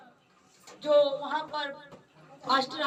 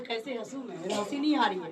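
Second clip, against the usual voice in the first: despairing; 5 semitones lower, faster than usual. Retold or imitated. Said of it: "वो कहता".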